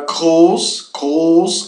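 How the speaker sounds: "groß" slowly, with a throaty R and long O; German pronunciation demo. Shown as a demonstration. Teacher introducing the word for big, German pronunciation demo. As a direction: model "groß" twice, drawn out, ending in s. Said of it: "a R se pronuncia fazendo".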